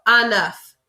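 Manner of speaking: enough said "ah-NUF" with a French lilt, falling; accented enough. Shown as a demonstration. Teacher modelling un œuf as a French enough. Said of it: "but with a little accent".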